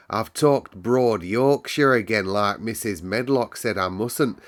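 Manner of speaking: put-on a cheerful Yorkshire servant girl telling the weather; Yorkshire maid Martha. Housemaid Martha explains the moor weather to Mary, lively Yorkshire lass.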